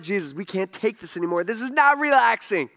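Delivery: mock fed-up complaint, rising at the end; imitated exasperation. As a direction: complain like a worn-out follower. Fed-up disciples complaining to Jesus.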